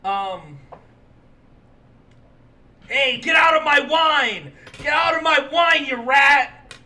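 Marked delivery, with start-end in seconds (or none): 2.9-6.7 loud, high shout, supposedly French; hammed-up French accent, shouted; fake French accent. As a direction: yell it in a crude mock French accent. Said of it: "Give me your French".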